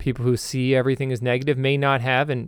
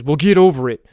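louder, curt scolding; Janet Reno voice; 8 dB louder than usual. Acted. Talking river tells the complainer to move on, comic Janet Reno voice. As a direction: brush off the complaint bluntly. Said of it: "Will Ferrell doing an impression of Janet Reno".

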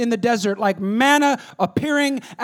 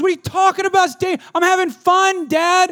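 put-on 1 kid protesting; 10 semitones higher, 7 dB louder than usual. Son protesting to dad.

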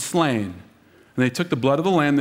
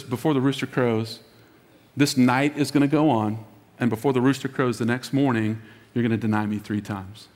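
gracious; 5 semitones lower than usual. Retold or imitated. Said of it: "the Lord so graciously says".

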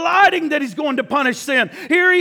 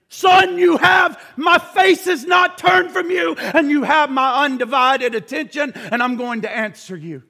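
booming fatherly reassurance, raised; God calling to his Son; 2 semitones higher, 4 dB louder than usual. Acted. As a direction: declare it from heaven to the Son.

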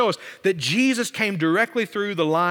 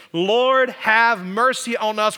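louder, higher imploring call; crying out; 3 semitones higher, 4 dB louder, slower than usual. Retold or imitated. Blind men call to Jesus, crying out. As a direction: call out for mercy, drawing it out. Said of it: "began to cry out to Jesus".

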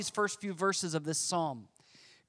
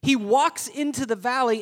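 dramatic whisper; 5 semitones higher, 6 dB louder than usual. Acted. Dramatic telling.

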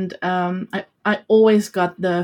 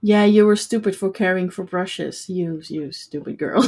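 mocking bully. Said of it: "you get bullied".

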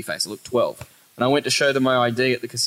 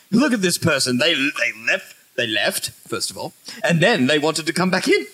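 mock outrage; 2 semitones higher than usual. Mocks an outraged local bouncer.

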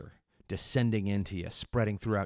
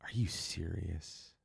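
mock passerby; 2 semitones lower, 7 dB quieter, slower than usual. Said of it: "you'd go".

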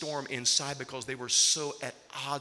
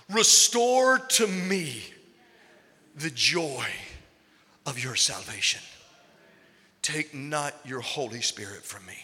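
pleading prayer; 4 dB louder than usual. Acted. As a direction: beg for joy back, slowly. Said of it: "David wrote this".

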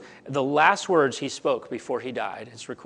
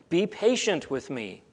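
pleading; 2 semitones higher, slower than usual. Acted. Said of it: "he begged".

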